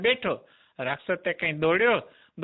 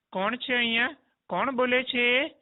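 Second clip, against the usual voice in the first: put-on surprised child; 6 semitones higher than usual. Boy calls out surprised.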